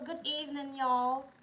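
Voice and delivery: lifted, drawn-out evening hello; sing-song greeting. Real, not acted. Livestream host greeting arriving viewers, sing-song and loud. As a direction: call out a welcome.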